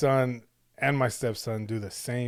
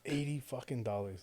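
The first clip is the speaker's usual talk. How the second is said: hushed and stunned; whispered; 11 dB quieter than usual. Real, not acted. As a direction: whisper it in disbelief. Hushed echo of price.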